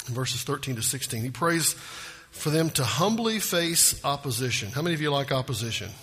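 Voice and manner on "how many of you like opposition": usual speaking voice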